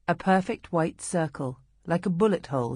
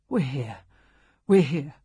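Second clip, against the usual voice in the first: tender reassurance; 4 dB louder than usual. Acted. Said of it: "raw and gravelly, but full of tenderness".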